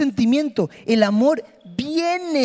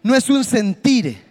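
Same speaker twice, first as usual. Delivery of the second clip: leading a prayer; 3 dB louder than usual. Acted. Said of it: "haga esto por favor y diga".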